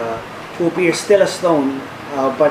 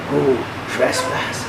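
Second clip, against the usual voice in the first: gruff hobgoblin voice; 5 dB quieter, much slower than usual. Acted. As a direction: call out slowly like a wary hobgoblin. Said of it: "a gruff voice, calling out".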